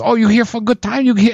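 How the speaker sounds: mock Asian accent. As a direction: imitate a put-on Asian accent, playing along. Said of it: "I mean, in that accent".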